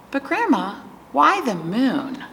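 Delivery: a hint of a puzzled little girl, drawing out the question; Charlie. Voices child Charlie questioning grandma.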